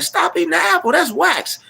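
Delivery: very high-pitched imitated cartoon warning; mock alarmed yell. Cartoon kids warning a woman eating wax, mock alarm. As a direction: squeal it in mock panic.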